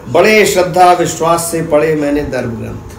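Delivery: declaimed verse, phrase by phrase with pauses; measured, rhythmic spoken poem; poetry recitation. Acted. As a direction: recite to an audience, repeating lines and building lists in a steady cadence.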